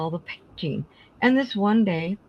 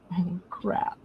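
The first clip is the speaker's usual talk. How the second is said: dismayed; 8 dB quieter than usual. Retold or imitated. Realizing son ruined the paint.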